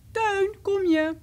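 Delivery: high, loud, drawn-out call; roepende moeder. A narrator's reading. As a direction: call a child in from afar, stretching the words. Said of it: "En moeder riep". (luid en langgerekt roepen)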